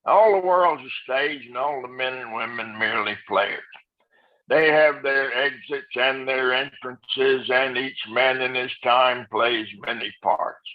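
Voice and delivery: even, flat, droning classroom reading; English teacher monotone. Shown as a demonstration. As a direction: read it like a bored teacher. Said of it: "like your English teacher do it".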